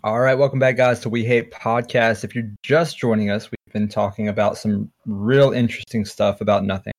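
smooth public radio host; NPR host voice. Acted. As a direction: welcome listeners like a radio host. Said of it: "I went straight into N P R mode".

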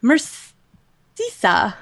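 Mercisa as mur-SEE-sah; tentative pronunciation. Real, not acted. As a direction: draw out Mercisa, ending in a plain "sah". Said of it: "One of those three is right".

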